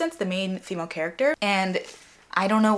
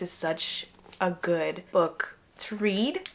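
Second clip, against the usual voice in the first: whisper; 4 dB quieter, much slower than usual. Real, not acted. Gushing about a beloved book.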